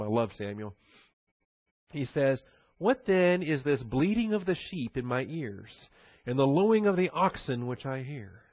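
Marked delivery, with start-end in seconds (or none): 2.8-8.4 sarcastic. Retold or imitated. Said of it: "great sarcasm".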